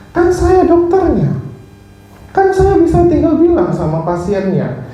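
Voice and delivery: controlled, indignant rebuke, not shouted; retold anger. Doctor rebuking a nurse for his tone, mildly angry. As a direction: re-enact telling someone off, pitch climbing. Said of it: "Langsung saya marah di situ".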